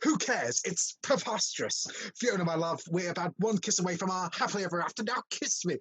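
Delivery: grandly dismissive lover; hammed-up romantic urgency, pushing for the kiss; theatrical prince wooing his bride; pompous suitor. Reading a film script scene.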